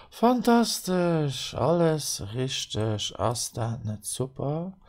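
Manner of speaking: excited. Acted. Cheering the quiz result.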